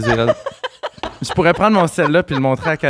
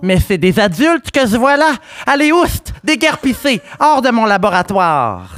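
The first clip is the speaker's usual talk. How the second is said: mad scientist; 3 semitones higher than usual. Acted. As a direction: play a frantic kid savant shooing people out. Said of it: "Ça, c'était mon, euh, mon intro".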